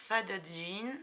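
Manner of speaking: English ink name said with a strong French accent. Real, not acted. Vlogger reading an ink name in her French accent. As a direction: say it the French way, poking fun at yourself. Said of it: "toujours avec mon super accent".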